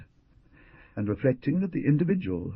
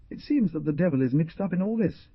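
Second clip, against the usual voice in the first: bad mood; 9 semitones higher than usual. A narrator's reading. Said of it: "said the jaguar in a bad mood".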